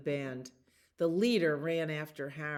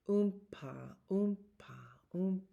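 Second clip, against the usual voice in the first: tuba oompa; 3 semitones higher, 3 dB quieter than usual. A narrator's reading. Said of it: "It was low and lovely".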